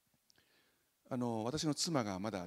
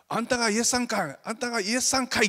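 much higher and louder Osaka-dialect greeting; 10 semitones higher, 10 dB louder than usual. Retold or imitated. Church play villagers greeting Jesus in Osaka dialect, loud. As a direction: call out in Kansai dialect like a friendly local. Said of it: "それも大阪弁で".

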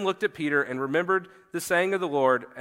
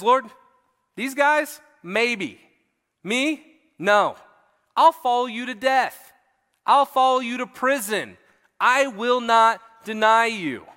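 acting out a cocky vow, pitched up; arrogant confidence; 4 semitones higher, 3 dB louder, slower than usual. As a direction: imitate an overconfident disciple pledging loyalty. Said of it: "a case of arrogant confidence".

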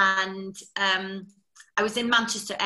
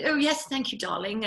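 frightfully posh; 3 semitones higher than usual. Retold or imitated. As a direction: imitate a posh old gentleman. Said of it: "he was frightfully posh".

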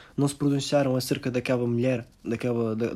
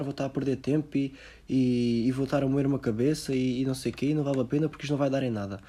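resigned Portuguese. Retold or imitated. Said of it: "os portugueses reagem tipo".

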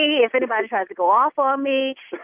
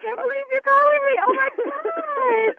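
high, gasping fan excitement; a fan shrieking with joy when the host calls her; excited squeal; 10 semitones higher than usual. Real, not acted. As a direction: squeal like you can't believe who's calling. Fan gets surprise call from host.

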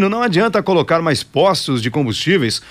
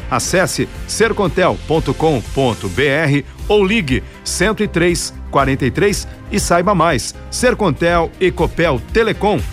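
upbeat radio ad read; hard sell ad. Acted.

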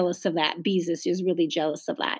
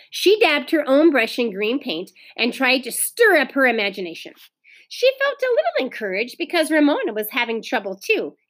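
lively read-aloud with lilting pitch; storybook reading for children; story narration; 3 semitones higher than usual. A narrator's reading. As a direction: read the story expressively to a class. Teacher reads story aloud.

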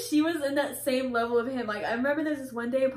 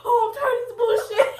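high, loud mock exasperation; imitated mad dad; 10 semitones higher, 6 dB louder than usual. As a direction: gripe loudly like a fed-up dad. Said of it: "he was literally mad".

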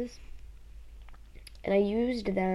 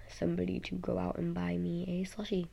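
whispering; 6 dB quieter than usual. Real, not acted. Whispered slushie request.

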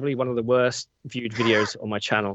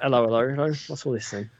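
Cockney policeman. Retold or imitated. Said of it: "proper Cockney accent".

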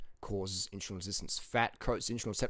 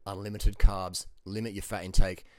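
loud emphatic orders; 10 dB louder than usual. Real, not acted. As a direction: shout it like a coach barking the rules. Shouting diet rules at viewers.

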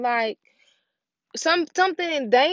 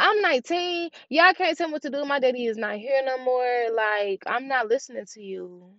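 defiant retort; 2 semitones higher than usual. Retold or imitated. Nineteen-year-old retelling pushback at everyone telling her what to do, defiant. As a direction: push back like a fed-up nineteen-year-old, retold. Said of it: "I'm like".

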